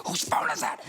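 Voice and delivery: mock alarmed crew call; imitated shout. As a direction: bark it like a panicked assistant director. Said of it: "hear the first A D going".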